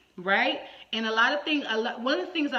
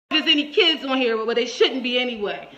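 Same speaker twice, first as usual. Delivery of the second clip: loud inner aside; 7 dB louder than usual. Retold or imitated. Inner thought at the caller.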